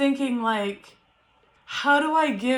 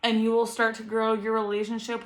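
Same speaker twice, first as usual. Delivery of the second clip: calm reassurance. Real, not acted. Reassures first-time moms softly.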